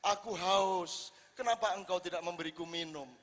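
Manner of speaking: a lightly voiced God calling his servants; voicing God. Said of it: "Misalnya Allah mengatakan".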